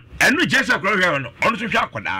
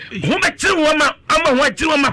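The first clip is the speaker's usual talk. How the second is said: high exclamation; 8 semitones higher than usual. Retold or imitated. Exclaiming in retold story.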